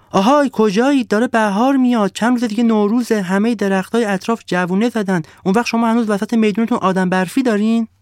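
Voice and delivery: high, loud call to the village. Acted. The sun calling the villagers to the square, high and loud. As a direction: call the whole village to come. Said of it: "مردم روستا را صدا زد".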